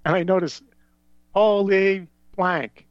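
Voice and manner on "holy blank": loud, drawn-out astonishment; retold stunned reaction; amazed exclamation. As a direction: stretch it out, higher and louder. Amazed at spotting famous passenger.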